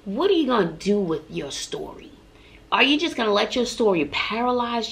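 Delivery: hushed whisper to the audience. Acted. Whispering a pointed question to listeners about their story.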